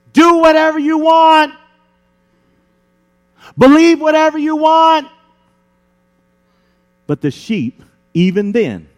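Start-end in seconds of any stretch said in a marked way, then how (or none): 0.1-5.1 high, mocking false shepherd voice; mocking tempter voice. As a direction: sing it out sweetly like a false shepherd tempting the sheep.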